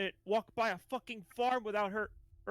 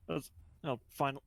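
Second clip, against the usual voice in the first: disgruntled; 6 semitones lower than usual. Acted. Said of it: "has this disgruntled look on his face that he says".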